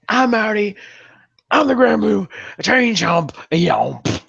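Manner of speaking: goofy sign-off voice. Pretend. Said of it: "He's been watching the Black Comedy Nerd too much".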